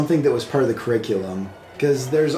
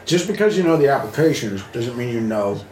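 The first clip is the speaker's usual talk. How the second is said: mouth full. Real, not acted. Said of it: "Sorry, my mouth's full".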